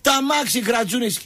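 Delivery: high-pitched comic lament; hammed-up high complaint; mock outraged cry. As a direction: imitate a car owner's indignant yelp. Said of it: "φωνάζουνε διασύμαντα πράγματα".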